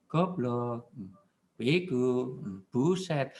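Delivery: preacher showing how to curse quietly, soft and low; said softly. Shown as a demonstration. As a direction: say the insults gently, quietly. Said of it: "Mbok pelan".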